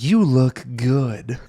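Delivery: very slow, drawn-out creepy compliment; creepy leer. Retold or imitated. Chris greeting Jessica after the hug, slow creepy leer. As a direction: ooze it through a creepy smile, word by word. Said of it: "gives her a very creepy smile and says".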